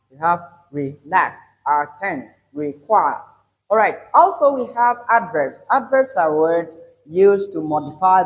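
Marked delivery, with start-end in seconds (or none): 0.7-3.2 relax, attend, require, each strong on the second syllable; weak start, stressed end in relax, attend, require. Shown as a demonstration. Teacher contrasting verbs with happy, second syllable stressed. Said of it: "As different from happy".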